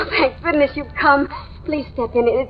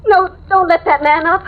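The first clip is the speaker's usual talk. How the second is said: frightened, pleading cries; terrified woman warning the doorman off; panicked refusal; 3 semitones higher than usual. Acted. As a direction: beg them not to come up, close to tears.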